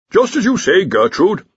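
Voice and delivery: loud, high mocking reply; sarcastic dean. A narrator's reading. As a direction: sneer it out sarcastically. Mocking the Arch-Chancellor.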